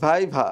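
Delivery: ভাইভা with V in both syllables; teeth-on-lip V twice in ভাইভা; correct viva model. Shown as a demonstration. Teacher correcting a failed attempt, careful pronunciation model. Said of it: "আবার বলেন। হয় নাই।".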